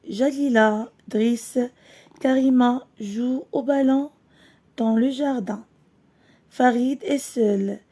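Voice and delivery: slow, clear storybook reading for pupils; reading to children. Acted. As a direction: read it out gently to the class, word by word. Teacher reads story to class.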